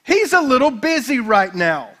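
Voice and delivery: slow, laughing sarcastic jab; a light mocking trash talk; mocking taunt. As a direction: tease the rivals with a smirk. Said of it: "He says / trash talk".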